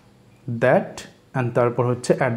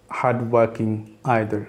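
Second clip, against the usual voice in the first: very slow, drawn out; slowed-down teacher model; slow drill; 2 semitones lower, much slower than usual. Shown as a demonstration. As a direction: stretch out hardworking either for learners. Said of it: "slow teacher model".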